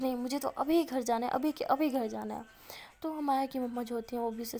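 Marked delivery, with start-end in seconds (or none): 0.0-2.4 mild acted stubbornness; retold obstinate demand; stubborn insistence. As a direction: insist on it, digging in lightly. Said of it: "ضد پہ ہوتی ہے".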